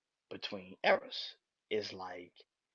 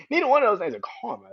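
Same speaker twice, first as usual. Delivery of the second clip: louder repeat; 10 semitones higher, 11 dB louder, faster than usual. Real, not acted.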